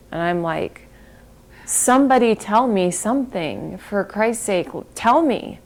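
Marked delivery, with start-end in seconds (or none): 1.6-5.6 high, loud, desperate cry for news; beg, frantic and near tears; a mother pleading for any word on her daughter, frantic and crying; frantic plea. Retold or imitated. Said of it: "And I'm crying, and I'm, like, frantic".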